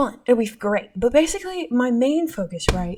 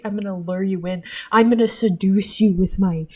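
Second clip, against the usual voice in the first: siren voice; 4 dB louder than usual. Pretend. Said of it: "my siren voice".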